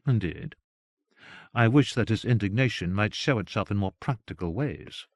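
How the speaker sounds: a touch of chilly reserve; cool. Acted. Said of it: "she said coolly".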